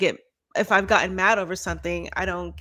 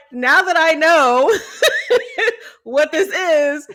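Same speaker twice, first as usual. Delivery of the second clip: higher, laughing through a playful warning; laughing mock threat; 8 semitones higher, 6 dB louder than usual. Joking to her cohost about finally knowing why she was mad, laughing. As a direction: giggle while promising a telling-off.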